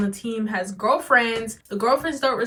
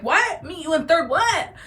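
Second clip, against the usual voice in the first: confused what; 6 semitones higher than usual. Retold or imitated. Confused at the fight threat.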